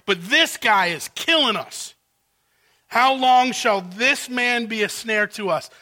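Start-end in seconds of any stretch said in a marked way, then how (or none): 0.1-1.9 outraged servants. Acted. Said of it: "You can see both their outrage and anger".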